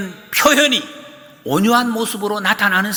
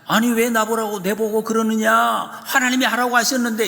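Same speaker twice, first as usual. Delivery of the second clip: high, protesting answer back; indignant retort; 5 semitones higher than usual. Pretend. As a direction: defend yourself, aggrieved. Moses' imagined retort. (억울해서 항변하는 모세, 높은 목소리)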